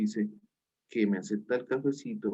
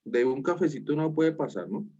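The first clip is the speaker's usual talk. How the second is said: sharply higher, mock encouraging friend; friend urging her on; 5 semitones higher than usual. Teacher voices the friend urging the student to go. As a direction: egg her on in a lighthearted high voice. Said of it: "Andrea le dice".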